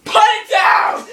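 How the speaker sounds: shouting. Real, not acted. Shouting at the bird.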